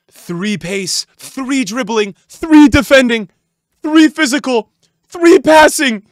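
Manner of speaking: slow, punchy, excited list rising in pitch; hyped announcing. Real, not acted. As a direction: build each item into a shout. Hyped reading of player's upgrades.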